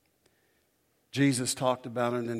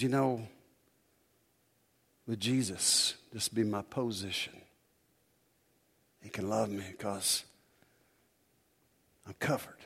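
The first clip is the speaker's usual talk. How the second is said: E V Hill quote; 2 semitones lower, 5 dB quieter than usual. Retold or imitated. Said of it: "the way he did it".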